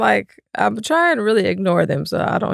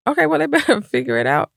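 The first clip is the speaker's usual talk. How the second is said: higher, dismissive dad voice; tossing it back at her, pitched up; imitating husband; 5 semitones higher than usual. Husband brushing off the kids, mock-dismissive.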